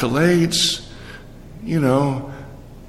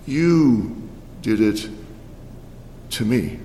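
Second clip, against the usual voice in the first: the king answering; 2 semitones lower, slower than usual. Acted. Voicing the king.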